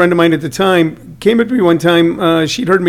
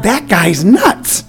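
slow, drawn-out mock warning; retold line, slowed right down; emphatic retold verdict; 3 semitones higher, much slower than usual. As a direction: stretch out each word for comic effect. Retells his alarmed verdict to Claudia.

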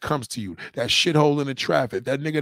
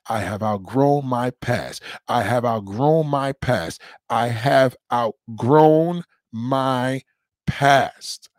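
slow affirmation; 3 semitones lower, slower than usual. Shown as a demonstration. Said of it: "by saying to yourself".

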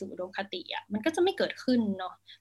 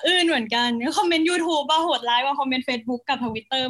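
higher and louder, laughing through the words; 4 semitones higher, 5 dB louder, slower than usual. Real, not acted. Guest laughs to host about cruel comments, laughing. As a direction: laugh it off while admitting it hurt.

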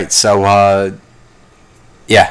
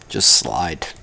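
soft low mantra; 6 semitones lower, 6 dB quieter than usual. Shown as a demonstration. Calming himself with his mantra, low and soft. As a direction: lower and softer, inward.

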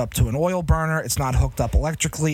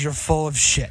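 dad dismissing. Retold or imitated. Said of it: "he looks at me and says".

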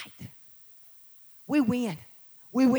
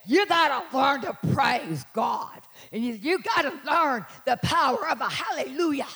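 pastor's preaching inflection; 3 semitones higher than usual. Retold or imitated. Imitating her pastor's hallelujah, toned-down booming inflection. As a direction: stretch the words with a preacher's lilt. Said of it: "that voice inflection of the hallelujah".

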